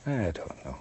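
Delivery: I don't know, fading to a hush. Shown as a demonstration. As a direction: murmur I don't know quietly.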